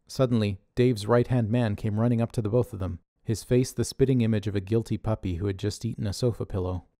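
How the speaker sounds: plain reading voice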